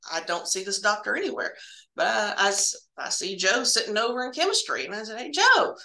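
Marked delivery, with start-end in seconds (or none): 5.2-5.8 higher, raised voice calling across the lab. Retold or imitated. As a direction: call over to Joe, a little urgent. Calling out to coworker Joe.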